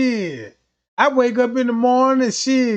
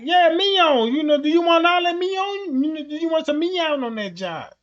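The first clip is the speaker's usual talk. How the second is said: much higher mock cashier; 4 semitones higher than usual. Mock cashier pushing mignon at McDonald's, much higher voice. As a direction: pitch way up and ask brightly.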